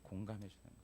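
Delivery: quiet afterthought repeat; soft echo. Shown as a demonstration. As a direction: drop to a hushed echo on 공감해주는 거예요. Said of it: "비판을 하는데 공감해주는 거예요".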